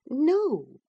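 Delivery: eager Catherine. A narrator's reading. Catherine urges Edgar to befriend Heathcliff, eager and high. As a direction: press him eagerly for his blessing.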